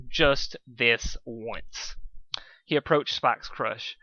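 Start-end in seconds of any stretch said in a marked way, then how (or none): 0.1-1.9 grudging. Acted. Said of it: "relinquished Dusk".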